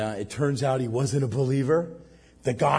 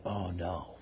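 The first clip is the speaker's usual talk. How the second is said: dismayed; 8 semitones lower, 12 dB quieter than usual. Retold or imitated. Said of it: "And we're like".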